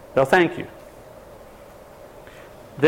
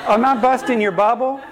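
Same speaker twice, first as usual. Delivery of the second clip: higher, through a laugh; 7 semitones higher than usual. Real, not acted. Teasing the audience after their answer, laughing. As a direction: chuckle while you tease.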